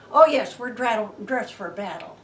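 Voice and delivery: loud, proud answer; boastful reply. Retold or imitated. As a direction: brag that you are ready for battle. Soldiers answer David boldly.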